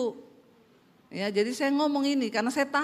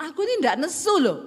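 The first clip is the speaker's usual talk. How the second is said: louder, higher mock protest; raised-voice wifely denial; angry-sounding denial; 4 semitones higher, 5 dB louder than usual. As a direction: protest loudly that you mean no anger. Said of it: "itu nadamu nesu".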